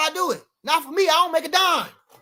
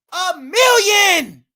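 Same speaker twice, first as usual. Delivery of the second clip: a slow, loud, higher shout of the sum; 6 semitones higher, 9 dB louder, much slower than usual. Real, not acted. Angry streamer shouting the offer at the rival. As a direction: hammer the number out slowly. Ranting about a money offer.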